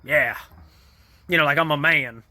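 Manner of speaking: lightly imitated macho tough guy; Clint Eastwood. Jack posing as his manly twin, mock tough guy. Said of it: "he tries to do, like, a Clint Eastwood face".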